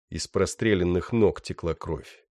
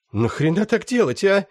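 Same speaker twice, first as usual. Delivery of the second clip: high-pitched rough bandit; young thug voice; 13 semitones higher, 5 dB louder than usual. Acted. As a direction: whine it like a wounded gangster. Раненый бандит. (высокий голос молодого бандита)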